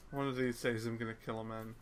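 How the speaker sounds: flat, quiet robot voice; deadpan robot monotone. Real, not acted. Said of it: "you sound like a robot".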